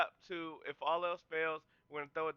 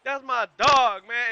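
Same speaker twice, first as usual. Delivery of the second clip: much higher, louder Boom and Yeah shouts; ecstatic cheering; 10 semitones higher, 15 dB louder, much slower than usual. Real, not acted. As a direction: cheer the hit like you're in the stands. Cheering the replayed hit.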